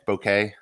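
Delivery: "bokeh" ending like "kay"; pronunciation demo. Shown as a demonstration. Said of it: "it's been pronounced seven different ways".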